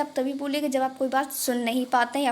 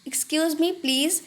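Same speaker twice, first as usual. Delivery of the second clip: very slow, drawn-out demo; Hindi: बहुत धीरे खींचकर; very slow model phrase; 3 semitones higher, much slower than usual. Shown as a demonstration. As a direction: stretch it out for learners. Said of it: "ये आप कब बोलेंगे".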